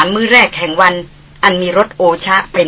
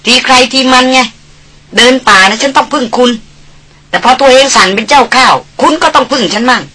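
lightly voiced haughty young lady scolding; mock him with a sneer, slowing the jibes; Darin teasing; 4 semitones higher than usual. Darin retorts. (ดารินพูดเหน็บแนมแบบคุณหญิงถือตัว)

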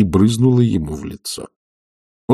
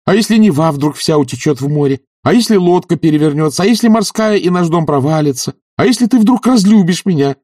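building playful taunts; 11 semitones higher, 6 dB louder than usual. Acted. Olga teasing, mounting questions.

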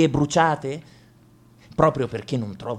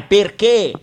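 loud why; 7 semitones higher, 7 dB louder than usual. Acted. Rhetorical question repeated louder.

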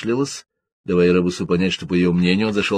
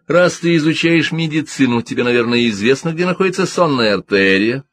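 higher, coaxing and leading question; insinuating; 6 semitones higher, 4 dB louder than usual. A narrator's reading. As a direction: ease him toward the trap. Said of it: "вкрадчиво спросил Шиван". (вкрадчиво, с намёком)

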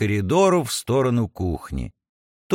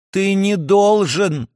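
urgent, higher and slow; alarmed cry; 5 semitones higher, slower than usual. Acted. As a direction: stop him in alarm. Princess alarmed, forbidding.

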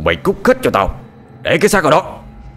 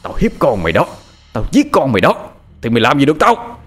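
cursing threat. Acted. Lão Tước cursing the woman he pins down, taunting. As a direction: sneer cruel threats at her. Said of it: "miệng hắn liên tục chửi".

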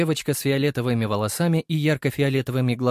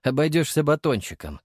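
stern; 5 semitones higher than usual. Acted. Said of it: "строго сказал я".

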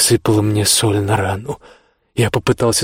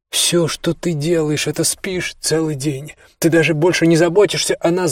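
shouting; 7 semitones higher than usual. Acted. Son yelling accusations at his mother, raised. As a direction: yell it at her with hurt. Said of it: "закричал я".

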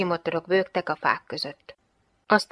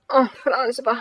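groaned; 6 semitones higher, 4 dB louder, slower than usual. A narrator's reading. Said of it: "nyögte láttára a hadnagy".

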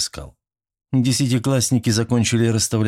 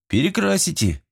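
smirking; 11 semitones higher than usual. A narrator's reading. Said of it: "хмыкнул Сергей Беспалов".

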